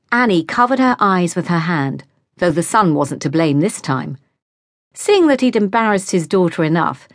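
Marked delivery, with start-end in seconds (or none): none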